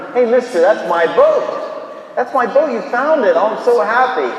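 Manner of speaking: put-on high, loud, thrilled kid; excited little boy. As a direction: blurt it out with delighted relief. Boy spots his lost boat.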